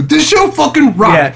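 high, loud, drawn-out fan cheer; mindless adulation. Acted. Podcast host mimicking a show's uncritical praise, mindless adulation.

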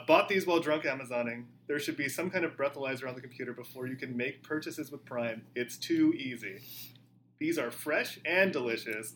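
a light Texas Houston accent, lazily stretched. Shown as a demonstration. Rereading the Amazon review for listeners in a Houston accent. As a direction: read it like a relaxed Houston Texan. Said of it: "This wild Houston accent".

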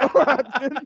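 co-host echoing the sheriff, pitched high; high mock sheriff voice; sheriff impression. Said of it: "And he goes".

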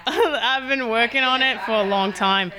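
demonstrating a put-on Australian accent. Shown as a demonstration. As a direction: show off your practised Australian accent, amused. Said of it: "Well, let's hear it".

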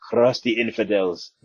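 ordinary talk, nothing marked

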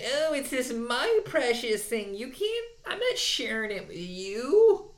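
high, whiny, drawn-out complaining. Retold or imitated. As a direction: whine like a possessive fan. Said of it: "you got that whiny voice down real good".

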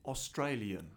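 "Australian" with a clipped Aussie vowel. Shown as a demonstration. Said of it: "she just said Australian".

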